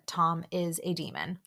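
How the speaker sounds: a conspiratorial whisper; whispered aside. Real, not acted. Host to listeners, a whispered dig. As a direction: whisper it like a secret jab. Aside about a cast member.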